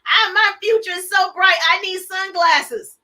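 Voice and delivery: bright, loud, a little slowed; excited meme voice. Retold or imitated. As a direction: read it out like a proud caption. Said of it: "Did y'all see that little cute little meme?".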